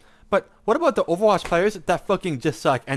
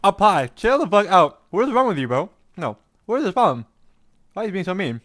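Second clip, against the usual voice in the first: loud, high exasperated yell; outraged yelling; 5 semitones higher, 7 dB louder than usual. Real, not acted. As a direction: yell at him to calm down. Streamer outraged at co-host.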